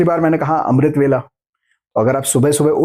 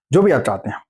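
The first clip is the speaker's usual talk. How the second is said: whisper; faster than usual. Real, not acted. Whispered aside in lesson.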